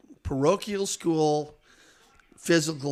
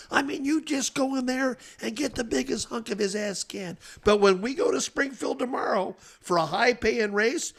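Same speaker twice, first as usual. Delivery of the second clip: much higher, sly gravelly official egging him on; gravelly steward voice; 9 semitones higher than usual. Retold or imitated. Steward Bill Carey tricking Jack into quitting, gravelly and sly. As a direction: egg the driver on, then spring the catch, in a smoky voice. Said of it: "He's got a gravelly voice like that".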